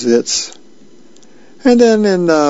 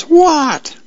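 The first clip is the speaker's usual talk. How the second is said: very high, hammed-up yell back; exasperated mock yell. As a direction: yell back across the house, play-acted. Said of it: "And she goes".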